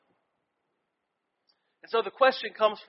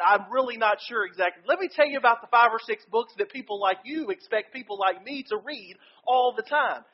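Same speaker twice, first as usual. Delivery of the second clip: exasperated venting. Retold or imitated. Seminary student unloading his workload on his professor, exasperated. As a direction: pile on the grievances, fed up.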